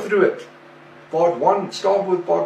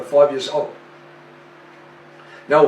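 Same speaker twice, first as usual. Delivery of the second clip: ordinary delivery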